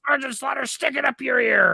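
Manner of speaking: wrestler promo voice. Retold or imitated. Quoting Piper's insult.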